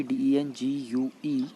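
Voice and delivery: slow, letter-by-letter spelling; spelled out. Shown as a demonstration. Teacher spells the word for students, spelled out slowly. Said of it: "इसकी spelling होती है".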